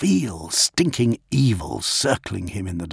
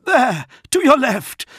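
high, loud pointed warning; strained high shout; urgent exclamation; 6 dB louder than usual. A narrator's reading. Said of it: "Dantiok exclaimed".

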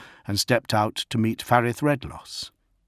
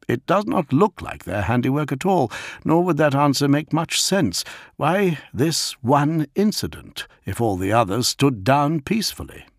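higher-pitched subordinate voice, emphatic; puzzled officer; 6 semitones higher, 3 dB louder than usual. A narrator's reading. Nessus questions the incident before Gilliman, high and earnest. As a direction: reason it out earnestly to a superior. Nessus reasons with his lord.

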